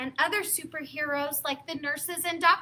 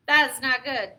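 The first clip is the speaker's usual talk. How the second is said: Gerald; 3 semitones lower, 4 dB louder than usual. Acted. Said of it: "said Gerald".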